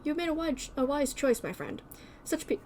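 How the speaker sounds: broken up by hiccups; hiccuping. Real, not acted. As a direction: speak through hiccups. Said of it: "I keep hiccuping".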